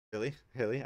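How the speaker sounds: mid-yawn. Real, not acted. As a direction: talk through a yawn. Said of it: "I yawn".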